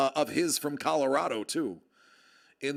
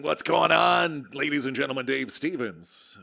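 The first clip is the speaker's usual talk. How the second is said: announcer greeting. Pretend. Streamer welcomes Dave Stevens to the stream, playful announcer introduction. Hails arriving viewer like an announcer.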